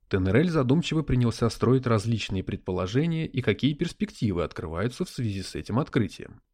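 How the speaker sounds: plain reading voice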